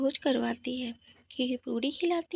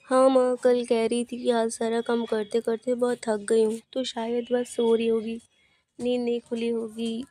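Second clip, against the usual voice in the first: mild-mannered son; 3 semitones lower than usual. Acted. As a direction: lower voice for the son. Son answers his mother.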